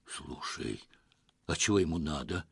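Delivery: mildly frightened hush; barely able to speak. Acted. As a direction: barely get it out, frightened to death. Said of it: "еле выговорил насмерть перепуганный Лёха".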